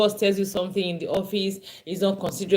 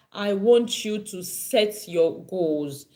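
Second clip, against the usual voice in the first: slow emphasis; much slower than usual. Shown as a demonstration. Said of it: "I'm emphasizing it again".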